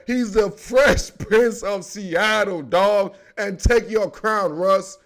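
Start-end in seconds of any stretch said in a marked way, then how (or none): 0.1-3.1 slow, laughing through it; laughing hype. Real, not acted. Crowning Russell Wilson the Fresh Prince, laughing. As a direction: savor the title, cracking up.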